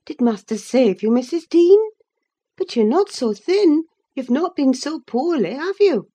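high, bright-voiced chattering servant woman; Zillah the servant. Zillah to Nelly, eager gossiping servant voice. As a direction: fuss over her like a gossiping maid.

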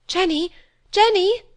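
high, loud calls rising to a shout; frantic calling. A narrator's reading. Molly calling the maid, frantic at the delay. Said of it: "cried Molly, frantic at the delay".

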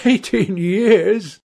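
high, drawn-out exultant echo; touch of triumph. A narrator's reading. Accused man seizing on the answer, triumphant. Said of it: "a touch of triumph in his voice".

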